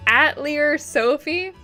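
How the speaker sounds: "Atelier" said AT-lee-er, ending in an R; in-game pronunciation. Shown as a demonstration. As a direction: say "Atelier" the game's way, with a final -er. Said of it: "the pronunciation in-game".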